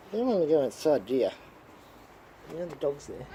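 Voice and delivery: put-on gentle baby talk to a pet; soft pet talk. Talking to the pet cat.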